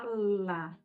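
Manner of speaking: "lá" with the L held, then opened into A; stretched, emphatic "lá" for teaching phonics; L sound blended into A. Shown as a demonstration. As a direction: sound out "lá", joining L to A. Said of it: "O som do L com A".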